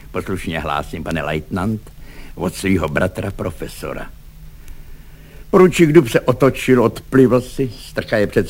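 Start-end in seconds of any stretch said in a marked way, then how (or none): 0.1-4.1 low, soft dutiful answer; meek report. A narrator's reading. Švejk answers the angry lieutenant, meek and soft. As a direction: report quietly and placidly.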